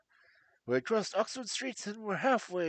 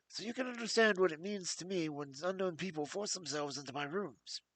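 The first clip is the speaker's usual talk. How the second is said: higher, anxious voice of a frightened man; nervous fat patient; 4 semitones higher than usual. Acted. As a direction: plead with jangled nerves. Blessington explains his fear.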